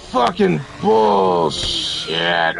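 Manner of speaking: slow, dragged-out furious yell; drawn-out angry curse. Real, not acted. Gamer cursing the game, slow angry yell. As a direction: stretch the curse out in disgust.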